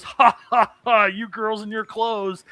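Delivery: hammed-up chuckle; mock hearty laugh. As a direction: laugh it off like a jovial noble. Noble laughing off her complaint.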